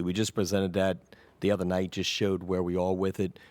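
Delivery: real quiet, under-projected council speech; hard to hear. Real, not acted. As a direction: speak too softly for the room to catch. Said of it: "I'm having trouble hearing you".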